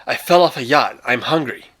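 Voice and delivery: earnest explanation under a pointed gun; lightly voiced anxious stranger; Rainsford pleading. Rainsford repeats himself to the giant.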